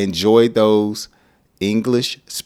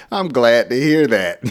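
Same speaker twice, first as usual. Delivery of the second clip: can't hold back the chuckle; laughing reply; 4 semitones higher, 4 dB louder than usual. Real, not acted. Teacher replies while laughing at his own example. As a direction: still laughing through the reply.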